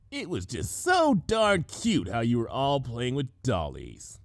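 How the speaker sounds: gentle teasing. Acted. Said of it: "not to sound like she was poking fun".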